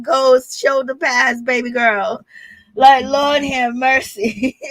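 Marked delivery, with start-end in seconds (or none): 2.7-4.6 slow words breaking into laughter; amused disbelief. Real, not acted. Vlogger reacts to the shoulder pads, amused disbelief. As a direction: laugh through a drawn-out exclamation.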